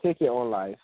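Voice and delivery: "Take your own life" set apart by silence; pause after LIFE. Shown as a demonstration. Showing the embedded command, pausing after "Take your own life". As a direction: stop after "life" and let it hang.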